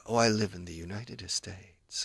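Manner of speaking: "United States" dragged out as "United Estates"; funny-sounding learner pronunciation. Shown as a demonstration. Teacher showing the class how a slip sounds, mock mispronunciation. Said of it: "Sounds a bit funny".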